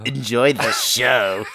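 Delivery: slow, drawn-out seductive take; sexy imitation. Shown as a demonstration. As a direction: copy the sexy read slowly.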